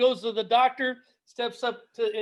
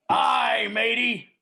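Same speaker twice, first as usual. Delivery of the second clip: pirate voice; 3 dB louder, much slower than usual. Acted. Pirate joke punchline.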